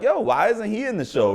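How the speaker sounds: high, pushing question; hyped crew. Retold or imitated. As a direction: press her, all worked up. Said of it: "They was like".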